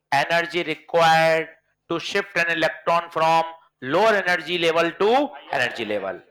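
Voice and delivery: very slow, word by word for notes; slow dictation. Shown as a demonstration. Teacher dictating the definition slowly to the class. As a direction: dictate it slowly so students can write. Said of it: "देखो मैं लिखता हूं फिर बताना".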